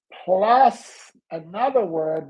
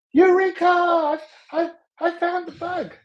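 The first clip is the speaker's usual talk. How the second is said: much higher, excited rush of discovery; retold eureka; 10 semitones higher than usual. Waking from the dream and finding the bug, elated cry. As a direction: shout it like a sudden breakthrough. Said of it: "realizing I had just discovered something".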